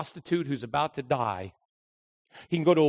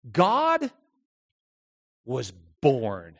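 preacher's hushed amazement; awed emphasis; 2 semitones lower, much slower than usual. Real, not acted. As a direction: marvel at it, word by word. Awe at the incarnation.

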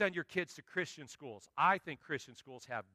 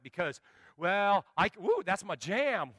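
mock excited fan; 3 semitones higher, 6 dB louder than usual. Imitating worship-song fan.

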